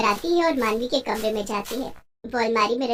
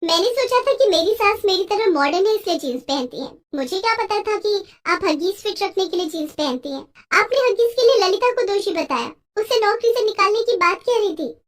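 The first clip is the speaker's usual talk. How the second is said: reproaching bahu; 5 semitones higher than usual. Acted. Daughter-in-law reproaches.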